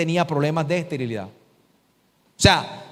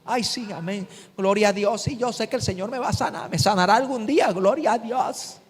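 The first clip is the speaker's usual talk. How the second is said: limp mock believer; 2 semitones higher, 4 dB quieter than usual. Preacher mocking a passive believer, soft and limp. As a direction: mimic a believer who doesn't really believe it.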